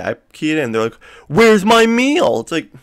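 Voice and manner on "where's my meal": high, loud, slow whine; whiny customer. Retold or imitated. Customer complains to the cashier about missing meal, whining. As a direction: stretch it out like an entitled customer.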